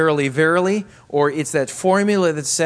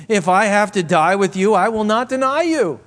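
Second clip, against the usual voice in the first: vehement vow; 5 semitones higher, 6 dB louder than usual. Acted.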